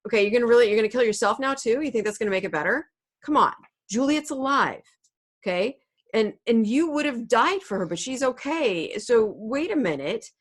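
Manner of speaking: loud, hammed-up telling-off; friar's lecture. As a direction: scold him like a fed-up mentor. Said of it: "He's like".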